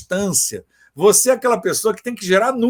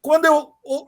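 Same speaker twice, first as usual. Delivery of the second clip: ordinary talk, nothing marked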